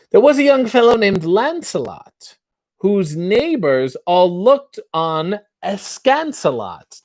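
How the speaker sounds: lightly put-on posh British accent, reciting; an American pretending to be British; mock British theatre accent. Reading limericks to the chat in a mock British accent. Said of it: "what is that accent you're doing".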